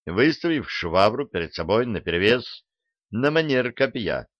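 ordinary delivery

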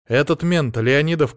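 ordinary delivery

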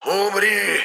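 very high, eerie shriek of a spirit; shrieking ghost. A narrator's reading. Ghost lunges at the hero with a shriek. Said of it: "заверещал дух".

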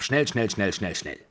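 rapid-fire repeated urging, tailing off; urgent string of commands; impatient hurrying. A narrator's reading. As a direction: hustle him along. Babuschka hurries him along.

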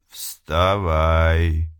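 hollow voice from beyond; otherworldly voice. Acted. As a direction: call like a spirit from nowhere. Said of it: "Потусторонний голос".

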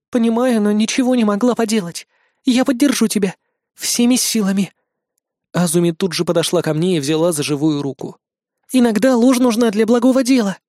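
put-on high, soothing girl's voice; idol girl. Idol girl promises support to Mark, high and gentle. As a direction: comfort him as the idol girl.

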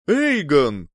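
startled cry of a name; shocked exclamation. Acted. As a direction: shout it in shock. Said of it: "шокированно воскликнул он".

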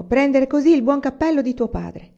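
put-on mother scolding the boy who took the hat. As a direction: keep reprimanding the child. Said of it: "esclamò".

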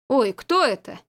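startled, puzzled question; surprised exclamation. A narrator's reading. Anatoly startled in the hallway, surprised. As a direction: caught off guard by a strange dog. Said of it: "удивлённый возглас".

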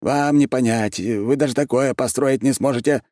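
high, fervent put-down; heated. A narrator's reading. Архимаг belittles his questioner, heatedly. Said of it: "с жаром ответил он".

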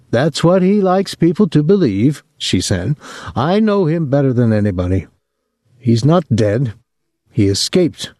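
a resentful mother proud of her son; old mother. Acted. Mother voice in the story.

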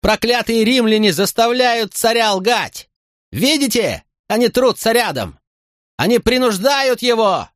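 high slow ranting shout; frantic high yelling to the crowd; desperate shouting. A narrator's reading. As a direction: rage at the Romans in despair. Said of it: "в отчаянии заорал Тинкоми".

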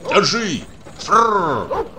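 very high urgent cry; high shout with a rolled horse-stopping trill; shouted command. Acted. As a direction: call out high to halt the horses. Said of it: "закричал Кузьмичёв".

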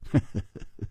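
very soft, breathy chuckle; cool chuckle. Acted. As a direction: chuckle quietly, almost without voice. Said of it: "季冰燕却淡淡地说".

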